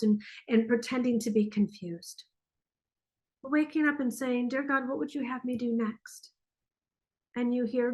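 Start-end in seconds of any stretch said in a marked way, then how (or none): 4.5-6.3 softly spoken mock-up of a prayer; gentle prayer. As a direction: ask it softly, as if praying. Voices a morning prayer.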